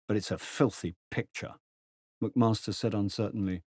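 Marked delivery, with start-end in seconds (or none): 0.1-1.6 contemptuous. Acted. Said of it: "Tejan's answered contemptuously".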